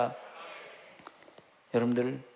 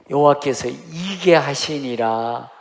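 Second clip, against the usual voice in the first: slow emphatic; 7 dB louder, slower than usual. Shown as a demonstration. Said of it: "repeated verse, slowed".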